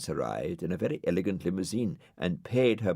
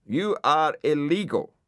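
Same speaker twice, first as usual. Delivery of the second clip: loudspeaker voice; 9 semitones higher, 5 dB louder than usual. Acted. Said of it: "said Dougal".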